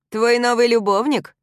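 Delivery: high, loud sneering laugh through the words; mocking laugh. A narrator's reading. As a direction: laugh at her as you ask. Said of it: "засмеялся бывший парень".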